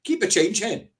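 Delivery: very high, scoffing caricature; imitating a dismissive big spender; mocking rich Arabs. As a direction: fling the money away in a high, derisive voice. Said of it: "That's exactly what these Arabs are doing".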